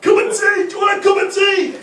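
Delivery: high-pitched Yorkshire shouting; hammed-up, very loud Yorkshire yell; painfully Yorkshire man. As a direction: bellow it like a caricature Yorkshireman. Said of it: "They're like, painfully York".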